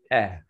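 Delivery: "eh" as the short sound of letter E. Shown as a demonstration. Trainer modelling letter E for teachers, a separate short "eh". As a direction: sound out E as a lone "eh". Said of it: "Write letter E".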